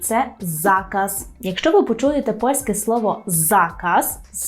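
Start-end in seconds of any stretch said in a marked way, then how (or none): 0.4-1.3 «заказ» stressed on the first syllable, slowly; penultimate stress. Shown as a demonstration. Teacher introducing a Polish word, «заказ» stressed on next-to-last syllable. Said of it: "з наголосом на передостанній склад". 3.2-4.2 «заказ» stressed on the first syllable; penultimate stress. Shown as a demonstration. Teacher showing correct Polish stress, «заказ» stressed on next-to-last syllable. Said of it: "з наголосом на передостанній склад".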